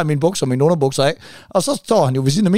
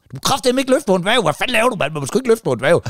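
retold fury; 6 semitones higher than usual. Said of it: "Så bliver han rasende".

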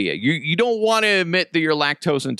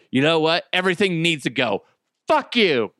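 raised mock-angry outburst; pissed-off girlfriend; 4 semitones higher than usual. Stomach rejects cheese like an ex, mock-angry. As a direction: play a girlfriend who has had enough. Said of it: "like the pissed off girlfriend".

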